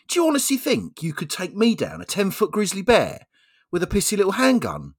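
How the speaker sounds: scornful bear. Acted. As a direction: sneer at the little handgun as the bear.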